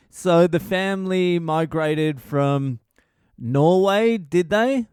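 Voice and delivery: mock the careful interviewer digging into family history; Jordan Peterson impression. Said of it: "Peterson's like".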